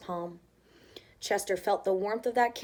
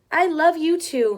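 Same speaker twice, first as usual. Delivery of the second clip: high, louder cheerful call; happy child; 7 semitones higher, 9 dB louder than usual. Acted. Chester romps away calling to his mother, high happy child voice. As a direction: call back happily as a kid. Child calls back lovingly.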